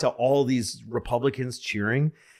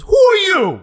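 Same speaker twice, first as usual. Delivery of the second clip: much higher, louder, suspicious demand; suspicious receptionist; 12 dB louder than usual. Retold or imitated. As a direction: challenge the caller, pitched way up. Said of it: "She goes".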